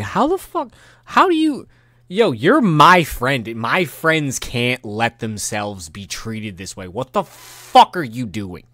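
high-pitched sputter slowing into emphatic scolding; upset, exasperated. Retold or imitated. Upset at a friend who accepts mistreatment, exasperated scolding. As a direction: start high and stammering, then scold slowly. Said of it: "I get a little upset with them".

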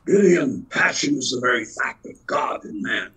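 lightly voiced stage God, measured and grand; a touch of a stately stage voice; quoting God in the play. Old man recites God's lines to Gideon in a lightly grand voice. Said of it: "he says".

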